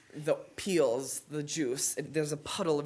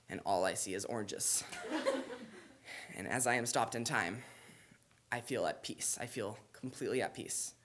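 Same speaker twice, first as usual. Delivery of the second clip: hushed trance; 2 semitones lower, 5 dB quieter than usual. Retold or imitated. Storyteller describing the silent moment, hushed calm. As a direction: drift into a peaceful hush. Slow-motion peaceful trance.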